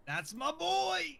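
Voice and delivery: high, slow proud shout; excited cheer. Real, not acted. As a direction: cheer it out, drawn long. Cheering at the announcer voice.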